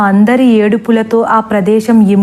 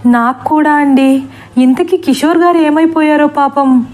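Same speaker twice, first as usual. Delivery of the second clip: higher, shaken voice; mild mock fear, pitched up; frightened; 5 semitones higher than usual. Master admits his own fear to the teachers. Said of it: "జడిసిపోతున్నారు".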